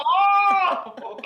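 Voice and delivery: high loud mock gasp of surprise; high mock surprised oh; surprised Mom. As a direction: exclaim it like a sudden realization. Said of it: "She goes".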